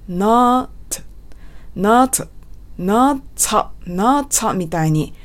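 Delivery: "not" with a sharply released, ts-like T; strong T in not. Shown as a demonstration. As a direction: release the final T of "not" hard. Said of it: "みたいに発音しているんですね". (「not」のTを強く破裂させて)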